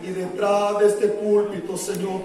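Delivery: earnest pulpit prayer in steady phrases; public prayer. Real, not acted. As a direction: plead to God before the congregation. Leads congregation in prayer. (oración pastoral en voz alta)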